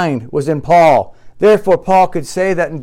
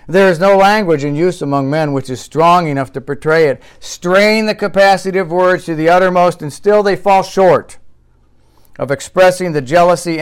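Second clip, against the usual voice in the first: forceful preacher reading a quotation; emphatic sermon reading; 4 semitones higher, 4 dB louder than usual. Acted. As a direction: read it out with pulpit force. Reads quote in preaching style.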